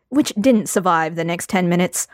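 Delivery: normal talking voice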